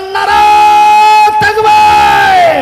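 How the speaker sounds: long drawn-out shout to the crowd; rallying call. Real, not acted. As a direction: call out Takbir at full force. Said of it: "জোরে বলেন". (জোরে নারায়ে তাকবীর হাঁক)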